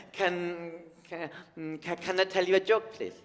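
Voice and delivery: put-on high, eager little-kid voice; imitating small nephew. Comic voicing his nephew begging to tell a joke. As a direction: play an excited nursery kid begging. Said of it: "and he goes".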